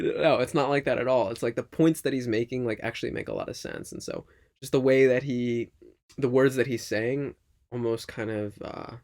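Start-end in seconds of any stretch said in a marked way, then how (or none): none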